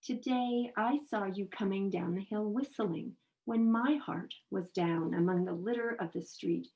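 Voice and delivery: emphatic, phrased poetry recitation; verse reading, forceful early then easing; poem reading. Acted. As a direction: read the poem as if addressing its subject directly. Reads a poem aloud.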